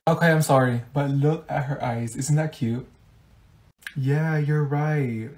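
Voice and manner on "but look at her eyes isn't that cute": ordinary talk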